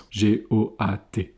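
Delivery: spelled out slowly. Shown as a demonstration. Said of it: "on va dire goat".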